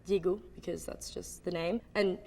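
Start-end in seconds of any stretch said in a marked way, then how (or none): 0.0-0.4 "Diego" said the French way; French pronunciation. Shown as a demonstration. Saying the name as in French, French "Diego". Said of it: "how you would say it in French".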